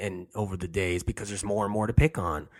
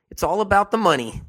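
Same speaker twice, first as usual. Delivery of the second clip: the whole line pitched much higher and louder; emphatic high; 10 semitones higher, 5 dB louder than usual. Shown as a demonstration. To viewers, hammering home the money motive, pitched high and loud. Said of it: "I'm gonna say it over and over again".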